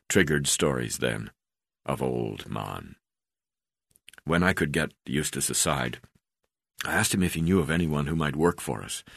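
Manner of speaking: ordinary delivery, nothing marked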